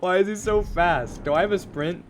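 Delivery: loud, high frantic questions; panicked yelling. Real, not acted. Streamer fleeing a fast monster, frantic yelling. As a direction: yell in a panic while running.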